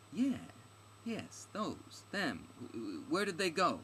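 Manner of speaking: high, eager, stumbling demand; urgent questioning. Acted. Stranger asking where the adventurers went, urgent and impatient. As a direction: press eagerly for the answer. Heroine eagerly presses for answer.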